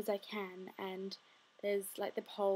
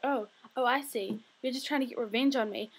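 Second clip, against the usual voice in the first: louder, higher imitation of a sassy girl; sassy accusation; 3 semitones higher, 7 dB louder than usual. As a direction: throw the accusation back with mock sass. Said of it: "in this sassy accent".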